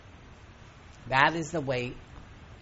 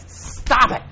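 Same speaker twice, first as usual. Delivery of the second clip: much higher and louder, a desperate cry; shouting; 9 semitones higher, 11 dB louder than usual. Retold or imitated. Student shouting at the guru to stop hitting him. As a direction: yell it out, fed up. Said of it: "the guy says".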